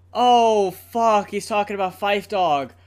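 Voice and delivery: choked up, hammed-up grief; mock tearful realization. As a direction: voice catching, mock overwhelmed. A rapper realizing it's about his late bandmate.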